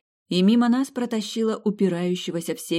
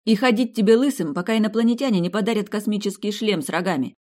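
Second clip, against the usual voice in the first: fervent curse; 5 semitones higher, 4 dB louder than usual. Acted. Continuing the curse.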